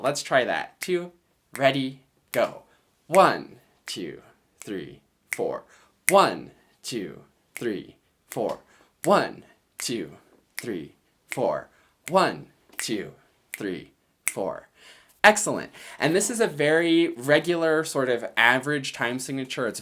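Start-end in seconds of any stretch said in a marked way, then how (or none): 3.1-14.7 march the count, lean on every one; count four, stress one. Shown as a demonstration. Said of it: "see if you can emphasize one".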